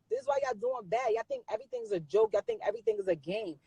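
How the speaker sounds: high, exasperated scold. Real, not acted. Scolding live viewers who treat everything as a joke, exasperated.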